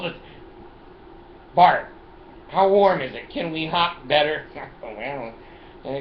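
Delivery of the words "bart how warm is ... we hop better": playful animal voice; voicing kangaroos. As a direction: ask like an eager cartoon kangaroo.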